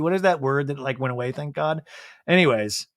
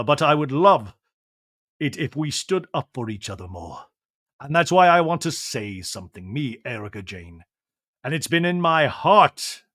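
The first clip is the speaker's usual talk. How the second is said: slow, grand theatrical monologue; Shakespearean voice; 5 dB louder, slower than usual. Pretend. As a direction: declaim it like a stage actor. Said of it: "but in a Shakespearean voice".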